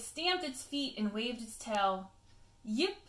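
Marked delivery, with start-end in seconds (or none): 2.6-3.0 yelp. Acted. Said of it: "Pippin yelled".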